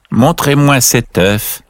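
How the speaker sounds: put-on old duck. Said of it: "dit la vieille canne".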